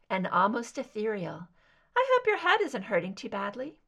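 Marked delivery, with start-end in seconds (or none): 2.0-3.8 soft soprano captor. Acted. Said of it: "higher pitched ... soft soprano".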